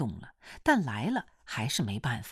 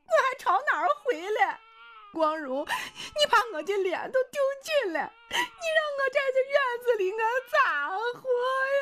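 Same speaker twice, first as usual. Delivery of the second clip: wailing sob; faster than usual. A narrator's reading. Wife sits on the ground, crying at her husband, high wailing. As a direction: wail through tears, fast at the end.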